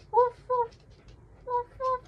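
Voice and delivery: put-on high, loud playful woof for a baby; high silly dog noise; dog barking. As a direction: bark it out like a happy puppy. Animal sounds for baby.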